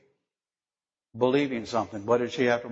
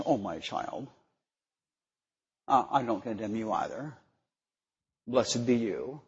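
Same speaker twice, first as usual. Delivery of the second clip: a hint of a gentle, softer voice, mocking the meek version; lightly voiced tender Jesus, quieter; mock soft-spoken Jesus; 3 semitones lower, 5 dB quieter than usual. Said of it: "the Messiah's words were kind of like soft-spoken".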